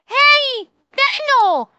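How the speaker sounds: high voice, laughing through it. Real, not acted. Host imagining the pilot's call while laughing high. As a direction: giggle the words out high.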